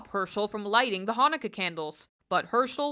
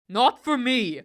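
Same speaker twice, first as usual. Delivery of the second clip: a louder huffy goblin; sulky refusal; 4 semitones higher, 7 dB louder, slower than usual. Acted. Goblin refusing to play again, louder huff. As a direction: snap it out, fed up. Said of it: "the goblin said".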